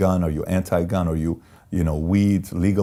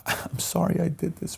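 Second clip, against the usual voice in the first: high, soft imitation of his wife; gentle high-pitched quote of an apologising wife; imitated apologetic wife; 9 semitones higher, 5 dB quieter than usual. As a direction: confess softly in a lifted wife voice. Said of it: "She says".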